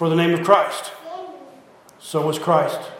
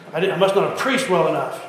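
laughing aside; faster than usual. Real, not acted. Joke about preaching.

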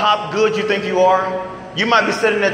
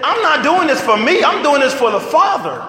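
earnest Jesus; 6 semitones higher than usual. Retold or imitated. Jesus quoted, voice rises.

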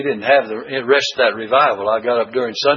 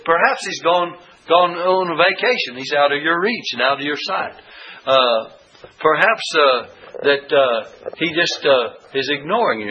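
mocking taunt. Elijah mocking the false prophets, light teasing. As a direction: rib them about their absent god. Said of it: "old Elijah made fun of them".

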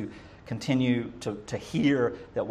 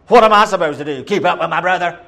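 indignant Cain; 4 semitones higher, 9 dB louder, faster than usual. Retold or imitated. Cain complaining against God.

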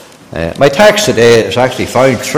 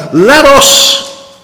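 wrong version; 10 semitones higher, 3 dB louder than usual. Shown as a demonstration. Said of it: "He didn't say that".

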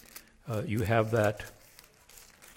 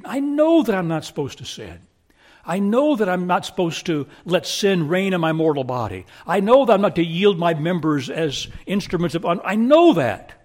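rising to a near shout; preacher hammering home what he knows; building preaching; 4 semitones higher, 7 dB louder than usual. Acted. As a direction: climb in force line by line until I know that rings out.

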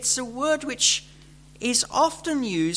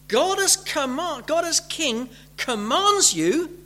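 commanding king; 4 semitones higher than usual. Shown as a demonstration. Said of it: "a very gentle word".

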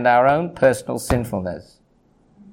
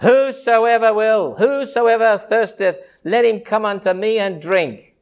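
slow, raised, higher cry of invitation; 5 semitones higher than usual. Retold or imitated. Jesus on the feast day calling to the crowd, a raised slow cry. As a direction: call it out slowly and strongly. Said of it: "and cried".

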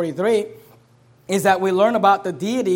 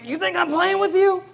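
imitating a mugger, much higher and strained; threatening gunman; 10 semitones higher than usual. Preacher retelling a mugging, voicing the gunman mockingly. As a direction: play the thug sneering at his victim. Gunman voiced in a retold story.

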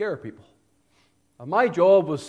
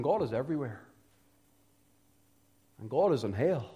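grave preaching; 2 semitones lower, 5 dB quieter than usual. Real, not acted. Preacher warning that God's justice will punish, grave hushed preaching. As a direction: let each phrase sink in softly, with long pauses.

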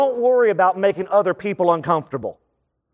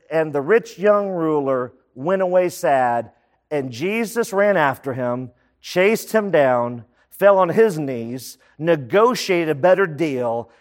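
mock scripture reading; 3 semitones lower, slower than usual. Mock scripture misquote, slowed.

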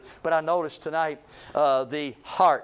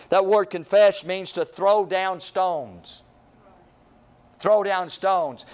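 slow, weighted preaching of confess; stress on confess; 4 dB louder, slower than usual. Real, not acted. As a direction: lean into confess and throw down stones, slowly. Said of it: "preacher stresses the meaning".

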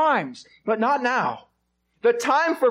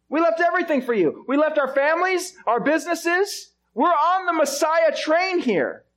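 indignant disciples. Acted. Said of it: "the disciples say".

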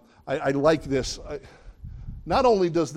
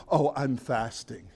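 mopey martyr. Retold or imitated. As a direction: play the suffering saint for show. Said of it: "And people say".

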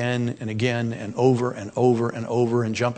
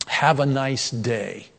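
mock autopilot phrase; much slower than usual. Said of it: "phrases can become sickening".

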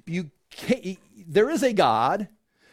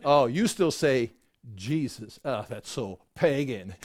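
snooty disdain; 7 semitones lower than usual. Acted. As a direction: look down your nose at them. Snooty convert scorning Jesus.

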